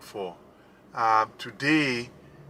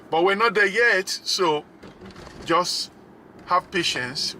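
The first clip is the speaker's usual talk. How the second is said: playful teasing; 6 semitones higher than usual. Real, not acted. Teasing viewers to wait.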